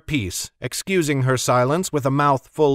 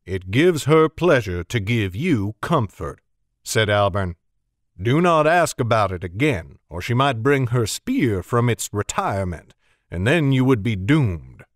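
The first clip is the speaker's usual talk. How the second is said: genial Alburn; 2 semitones lower than usual. Acted. Alburn warning Chet about Mag, wry. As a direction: warn with a wry smile.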